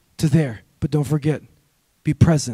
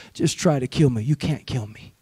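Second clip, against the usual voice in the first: defiant grandmother; 9 semitones lower, 10 dB quieter than usual. Retold or imitated. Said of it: "stared it in the face and said".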